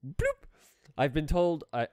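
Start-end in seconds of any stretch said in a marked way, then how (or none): none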